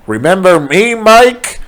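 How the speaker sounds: lightly voiced sinister werewolf; menacing werewolf. A narrator's reading. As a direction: toy with your prey. Werewolf menaces his victim.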